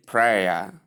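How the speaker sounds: prayer as two syllables, PRAY-uh; prayer ending in an open "uh"; common mispronunciation. Retold or imitated. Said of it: "I hear most people say".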